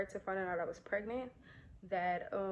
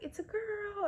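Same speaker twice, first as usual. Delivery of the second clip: doctor announcing; 12 semitones higher than usual. Retold or imitated. Doctor announces baby's gender.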